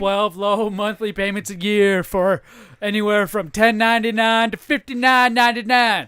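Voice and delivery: ad read. Acted. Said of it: "we're, we're advertising".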